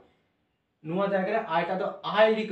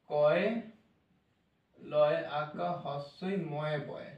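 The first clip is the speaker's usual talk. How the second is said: slow spelling; 4 semitones lower, 3 dB quieter, much slower than usual. Shown as a demonstration. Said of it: "লেখা উচ্চারণ".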